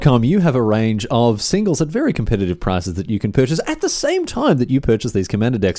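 emphatic salesman's plug; hammed-up infomercial pitch; shilling. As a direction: urge the listener to buy now. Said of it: "how about some shilling".

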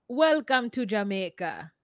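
Jamaican-accented greeting to be copied; lightly put-on Jamaican lilt. Shown as a demonstration. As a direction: model a Jamaican accent for a friend. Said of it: "Can you say, like".

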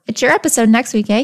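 light Canadian lilt on eh; mock Canadian. Teasing cohost in a mock Canadian accent. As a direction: tag eh like a Canadian. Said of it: "That's Canadian".

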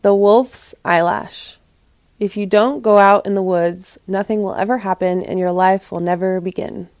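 expressive, dramatic storyteller read; story narration. A narrator's reading. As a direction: read it aloud like a fable with lively emphasis. Reads the story aloud.

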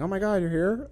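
high-pitched imitation of a surprised mother; surprised mom. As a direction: pitch it up, as if running into your kid. Voicing mom's surprised greeting in dream.

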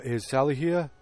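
weird, toneless deadpan imitation; level, unemotional mock delivery. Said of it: "he's got this weird deadpan delivery".

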